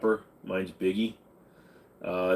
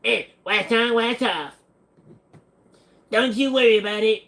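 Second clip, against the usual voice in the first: higher mock Japanese sensei accent; a clowning old-master accent, pitched up; joking Miyagi accent at chat; Mister Miyagi; 11 semitones higher, 4 dB louder than usual. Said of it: "Miyagi Cartman".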